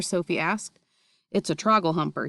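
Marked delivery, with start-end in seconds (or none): 1.3-2.3 shouted. Acted. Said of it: "he shouted".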